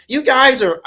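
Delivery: high nerdy teacher voice shouting them out; squeaky little teacher ordering them out; the nerdy teacher throwing the boys out. Retold or imitated. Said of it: "Mister Morris, who was a little nerdy teacher".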